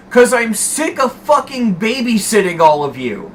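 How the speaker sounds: high-pitched imitation of an exasperated boss; mock angry yell. Boss lashing out at his employee, mock angry yell. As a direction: yell it high as a fed-up boss, half-volume. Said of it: "he's fucking yelling like this".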